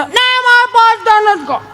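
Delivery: put-on child refusing food, high and whiny. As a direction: pout it out like a spoilt kid.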